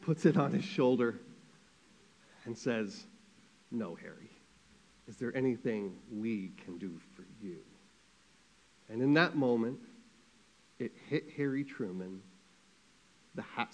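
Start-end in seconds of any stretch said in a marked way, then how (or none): 3.7-7.6 low, soft and grave; acted quiet, steady consoling voice; Eleanor Roosevelt. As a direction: gently turn the offer of comfort back. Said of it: "Eleanor Roosevelt takes her big banana bunch hand".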